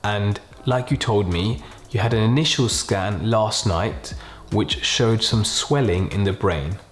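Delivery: slow, gentle, quiet delivery with pauses; doctor bad news. Shown as a demonstration. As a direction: break bad news softly and slowly. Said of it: "the main aim here is to be really slow, kind of really use a quiet tone".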